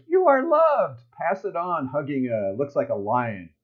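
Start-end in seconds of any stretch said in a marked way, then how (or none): 0.1-1.9 much higher and louder cartoon voice; cartoon elephant. The elephant hugging the lion, high and loud. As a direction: belt it out like an excited cartoon animal. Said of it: "And then the elephant goes".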